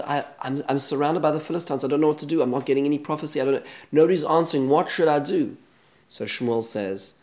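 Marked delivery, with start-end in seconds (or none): 0.0-5.6 mock panicked plea. Saul pleads in terror.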